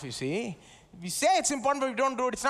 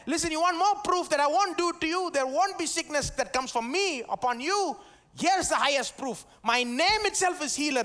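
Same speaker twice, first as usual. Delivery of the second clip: voice of God; 5 semitones higher than usual. Acted. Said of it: "So when God said".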